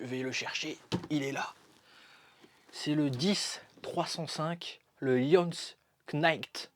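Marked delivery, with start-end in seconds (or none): 5.0-6.7 a hint of a mock English accent; half-joking English accent on the name. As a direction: say Knight Castle in a lightly put-on English accent. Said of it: "avec mon magnifique accent, euh, anglais".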